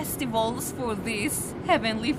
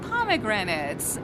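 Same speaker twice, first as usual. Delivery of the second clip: plain; 2 semitones lower than usual. Shown as a demonstration.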